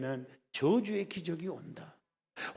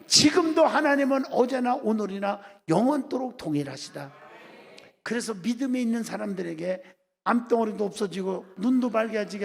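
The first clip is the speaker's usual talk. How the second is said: raised, driving sermon voice; impassioned preaching; 6 dB louder than usual. Real, not acted. Preacher promising believers God's miracles, impassioned. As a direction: proclaim it forcefully to a congregation.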